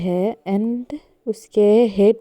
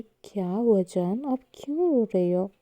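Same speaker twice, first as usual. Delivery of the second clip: softer, gentle comforting; soft tender; 8 dB quieter than usual. A narrator's reading. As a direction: ask tenderly while hugging her. Fiancée gently comforts, hugging her. (प्यार से धीमी आवाज़ में पूछना)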